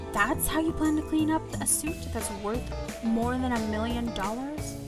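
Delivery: lightly growled angry question; mild growl. Acted. Angry man whose suit was ruined, mildly growling. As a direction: growl it with restrained anger. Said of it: "growls at me".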